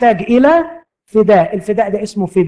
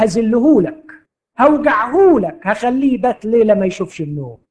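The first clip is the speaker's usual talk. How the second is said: mocking; 3 semitones higher than usual. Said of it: "يرد المرض ساخرا".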